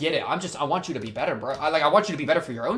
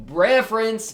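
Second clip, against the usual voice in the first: excited shout; 7 semitones higher, 7 dB louder, slower than usual. Real, not acted. Excited callout of own joke.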